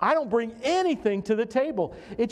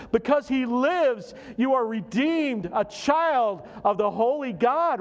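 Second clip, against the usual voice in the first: raised, emphatic sermon delivery; fervent preaching; 4 semitones higher than usual. Real, not acted. Preacher urging the congregation to live in hope, fervent preaching. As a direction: preach it with rising pitch on the key phrases.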